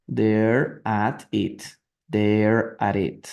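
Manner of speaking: slow it right down for repeating; very slow drill. Shown as a demonstration. Teacher drilling the phrase very slowly for the class. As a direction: drag each word out slowly.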